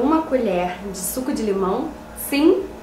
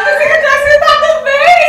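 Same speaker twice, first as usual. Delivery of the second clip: high, fast laughing lament; laughing wail; 14 semitones higher, 8 dB louder, faster than usual. Real, not acted. Daughter loses, laughing wail.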